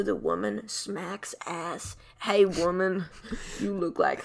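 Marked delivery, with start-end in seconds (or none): 2.2-4.2 louder mock Southern come-on; Southern accent. Southern character accosting a woman, loud mock Southern accent. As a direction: call out in put-on Southern. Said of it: "now he can be Southern".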